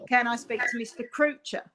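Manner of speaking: put-on a light, half-hearted Australian accent on the client's call; Australian client phoning up the office, in a mild Australian accent. A hint of an Australian accent, not quite pulled off. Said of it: "So in an Aussie accent".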